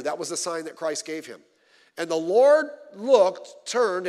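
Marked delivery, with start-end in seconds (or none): 2.0-4.1 slow, weighty, louder reading; dramatic emphasis. A narrator's reading. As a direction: stretch the words out, heavy with meaning. Dramatic pause on the Lord's look.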